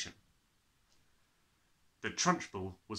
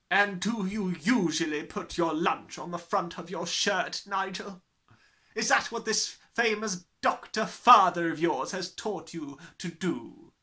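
loud sarcastic headmistress; 7 semitones higher, 7 dB louder than usual. Acted. Trunchbull mocking.

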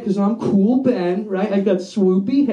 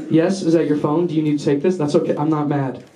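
low, measured mock patience; feigned calm; 4 semitones lower than usual. Comic to someone with a phone, feigned calm. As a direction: hold back the anger, politely.

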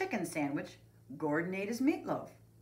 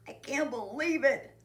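high voice of mild dismay; sad; 9 semitones higher, 4 dB louder than usual. A narrator's reading. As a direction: lament it like an upset kid. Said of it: "Buster said sadly".

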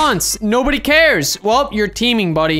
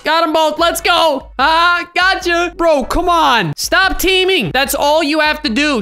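high, pumped-up gamer crowing; excited and scolding, pitched up; triumphant outburst; 6 semitones higher, slower than usual. Real, not acted. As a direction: exclaim over the double kill. Kills both teamers in game.

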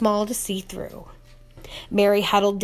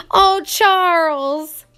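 high, loud, slow cry of relief; wife crying out in relief to her husband; relieved cry; 8 semitones higher, 5 dB louder, much slower than usual. A narrator's reading. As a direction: breathe out the fear in his name. Ma's relief after crossing.

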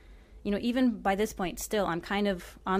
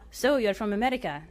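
a lightly voiced booming man with an Arabic accent; host half-accusing, half-amused, light Arabic accent; 3 semitones higher, 4 dB louder than usual. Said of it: "Amjad had a booming voice".

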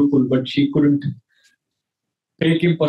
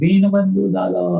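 calling out; 5 semitones higher than usual. Acted. Boy calls Krishna on the way to school, raised call. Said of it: "in the morning he shouted".

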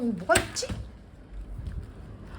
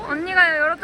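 calling out; 6 semitones higher, 6 dB louder, faster than usual. Real, not acted. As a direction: sing out the offer across the room. Calling out to the children.

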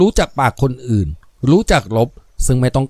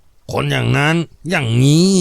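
drawling; slower than usual. Acted. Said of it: "แตงยานคางพูด".

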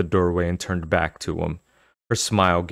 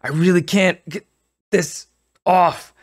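harsh raspy voice; 11 semitones higher, 5 dB louder than usual. Acted. Raspy masked voice continuing.

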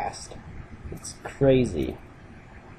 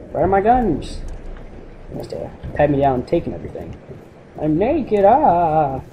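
higher, hammed-up panic over lost gear; mock panic; 3 semitones higher than usual. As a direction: play it like a panicked prisoner. Panicking naked in game cell.

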